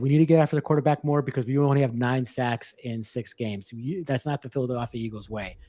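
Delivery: winded, catching breath between phrases. Real, not acted. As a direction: talk while short of breath. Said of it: "while I catch my breath".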